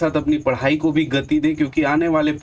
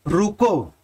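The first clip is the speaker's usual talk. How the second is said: रुको said alone, then a halt; pause after रुको; much slower than usual. Shown as a demonstration. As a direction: stop on रुको as at a comma. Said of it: "अब थोड़ा देर रुकेंगे, आप ठहरेंगे". (रुको के बाद ठहराव)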